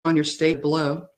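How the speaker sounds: choppy audio cutting in and out; words dropping out like a bad connection; corrupted glitchy audio. Real, not acted. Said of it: "your audio is cutting out for me".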